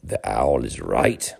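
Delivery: low, slow dignified lion voice. Acted. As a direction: pronounce it with regal gravity. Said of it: "with much dignity".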